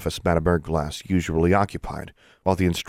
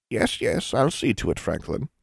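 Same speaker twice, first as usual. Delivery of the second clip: put-on sleepy old witch; 5 semitones higher than usual. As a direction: brush him off drowsily. Sleepy Erglass brushes him off.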